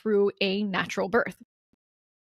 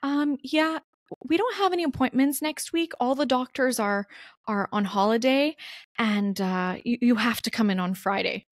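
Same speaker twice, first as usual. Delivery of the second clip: poor receptionist; 4 semitones higher than usual. Retold or imitated. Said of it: "So the poor receptionist gets back on the phone and says".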